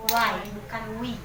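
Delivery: "Y" pronounced like English why, against "we"; pronunciation contrast. Shown as a demonstration. Teacher shows how to read the word, contrasting "Y" with "we". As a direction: set "Y" apart from the wrong "we". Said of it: "jadi cara bacanya".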